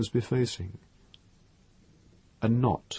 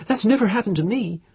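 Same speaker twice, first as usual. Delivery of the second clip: put-on high, loud, defiant girl; proud defiance; 12 semitones higher, 5 dB louder than usual. A narrator's reading. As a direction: toss it back with proud defiance. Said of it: "she said, defiant".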